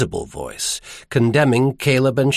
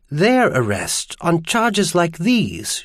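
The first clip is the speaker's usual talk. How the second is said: distressed woman character; 7 semitones higher than usual. Acted. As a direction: voice a distraught woman, pitched up and slowing. Narrator voices Iris in dialogue.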